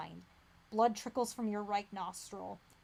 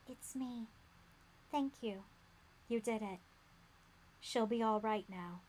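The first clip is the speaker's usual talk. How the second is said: softer, gentle woman's voice; warm and gentle woman; 3 dB quieter than usual. A narrator's reading. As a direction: soothe him like a kind mother. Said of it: "a warm and gentle one".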